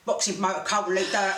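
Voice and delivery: a hint of a hard Cockney geezer accent, lightly put on; strong London accent. Phoning the tabloid as a promoter, mild Cockney geezer accent. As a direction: lightly lay on a tough London accent like Danny Dyer. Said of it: "I'm putting the accent on right strong".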